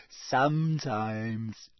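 very slow, sly drawl. Acted. Ghost admits spying on bathers, sly. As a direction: stretch it out, coyly owning up. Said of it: "said Myrtle rather slyly".

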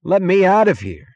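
high, loud scream; panicked scream. A narrator's reading. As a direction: scream it out like someone trapped. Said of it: "screamed a young third-rate assistant".

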